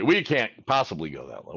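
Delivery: lightly voiced collector refusing the offer; mock collector refusal. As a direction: imitate a collector saying no out of the gate. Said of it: "you're gonna be".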